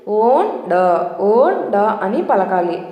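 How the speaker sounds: ఓన్ డ split into two chunks, on then ɖa; syllable demo. Shown as a demonstration. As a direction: sound out ఓన్ డ in two parts. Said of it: "ఎలా pronounce చేయాలి".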